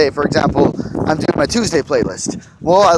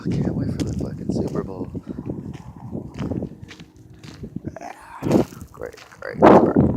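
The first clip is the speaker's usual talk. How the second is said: sarcastic; 7 semitones lower, 4 dB quieter than usual. Real, not acted. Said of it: "in the most sarcastic fucking way".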